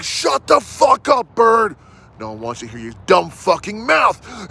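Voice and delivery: shouted at the bird in the cage; annoyed yell. Retold or imitated. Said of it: "I'm like".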